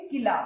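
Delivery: किला said fast with a short कि; don't lengthen the कि of किला. Shown as a demonstration. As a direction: keep the कि in किला quick and short. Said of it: "लंबा नहीं बोलते".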